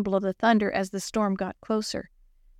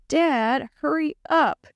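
moaning; 6 semitones higher, slower than usual. Acted. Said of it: "he moaned".

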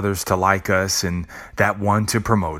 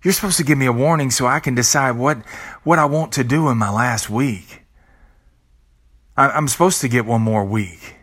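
higher, louder protest, pleading with death; playing a person begging death for more time; 5 semitones higher, 3 dB louder than usual. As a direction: insist you were owed a warning, rushed. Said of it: "you say".

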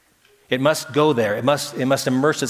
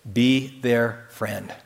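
drawn out slow and soft, each word apart; very slow soft repeat; 4 semitones lower, 3 dB quieter, much slower than usual. Shown as a demonstration. Preacher repeating his urging to the congregation, slower and softer. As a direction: let it sink in gently.

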